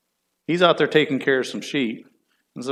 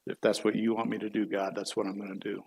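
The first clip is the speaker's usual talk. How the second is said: low, soft, humble reply; quiet acceptance; 3 semitones lower, 9 dB quieter than usual. Retold or imitated. David yielding to God's call, quiet acceptance. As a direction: accept it softly, voice dropping low.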